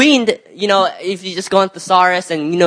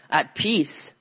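hushed softly; 3 semitones lower, 9 dB quieter than usual. Acted. Describing a soul at rest.

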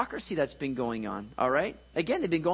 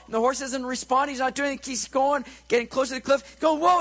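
high, urgent telling; panicked storytelling; 9 semitones higher, 4 dB louder than usual. Acted. Preacher telling of a runaway horse, in mock panic. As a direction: build the alarm, voice pitched way up. Panicked rider nearing the cliff.

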